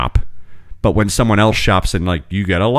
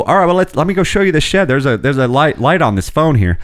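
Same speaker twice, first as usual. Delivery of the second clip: a bit like Ted; 6 semitones higher than usual. Retold or imitated. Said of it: "I start talking like Ted a little bit".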